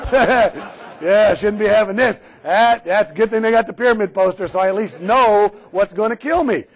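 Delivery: cheerfully mock the poster logic with a laugh; sarcastic mock agreement. Trainer mocking buffet diners to the class, loud and sarcastic. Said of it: "I apologize for my sarcasm".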